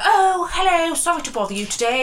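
mock posh, high polite hello; imitating a polite posh caller; posh southern accent. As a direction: put on a lightly posh southern voice. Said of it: "she's quite posh".

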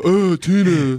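Napoleon Dynamite. Retold or imitated. Showing how people thought I talked, mock monotone impression. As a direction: imitate a socially awkward teen's monotone. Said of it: "he has that very monotone".

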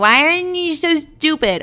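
high, loud, drawn-out imitation of a furious sister; hammed-up outrage; mock losing it. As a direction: shriek it like an exasperated sibling. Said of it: "she's gonna lose her fucking mind".

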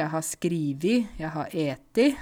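SKRIVI and ETI ending on a clear i; dialect i-endings. Shown as a demonstration. Teacher listing example verbs, dialect i-endings on SKRIVI and ETI. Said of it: "en del verb får også sånn i-endinger".

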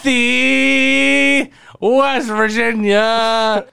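calling out. Pretend. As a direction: yell it across the house. Calling out to mother.

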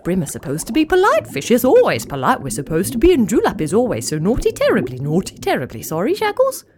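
fussy, fretful little fish voice; apologetic fish chatter. Acted. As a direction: babble apologies like a nervous fish. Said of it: "Palala and Glugli bob-blobbed together".

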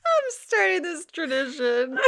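put-on high Southern accent, laughing; giggly Southern declaration. Announcing the new holiday tradition, Southern accent. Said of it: "Southern accent came from".

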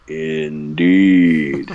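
Funaki voice. Retold or imitated. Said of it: "Funaki slash Bruce Pritchard says".

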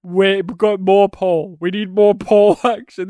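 excited demand. Retold or imitated. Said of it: "I kept saying throughout the movie".

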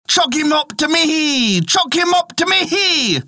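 high, slow hollering rooster. Acted. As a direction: holler it down from the roof.

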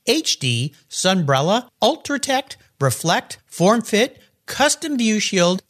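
polished, emphatic podcast ad delivery; sponsor ad read. Acted. Host pitching Covercraft car covers to listeners, polished ad read. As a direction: sell it to listeners, crisply emphasised.

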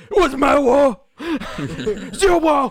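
laughing movie quote. Retold or imitated. Quoting Rambo line, laughing.

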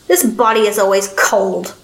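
slow, lightly voiced gravelly old man; a hint of a slow old man's rasp. A narrator's reading. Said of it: "the gravelly voice said".

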